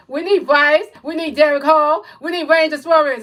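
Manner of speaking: shouting the demand for the three players; loud demand. Shown as a demonstration. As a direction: call out each name like a rally cry. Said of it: "you need to type that again and say".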